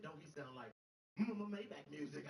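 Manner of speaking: M-M-M-Maybach stuttered slowly, like a DJ drop; mock stutter. Daughter jokes the waiter sounds like a producer tag, stuttering slowly. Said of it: "She said".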